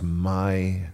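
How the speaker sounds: quiet, loving reverence; endearing. Shown as a demonstration. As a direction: savour each title softly and slowly. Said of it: "it's an endearing term".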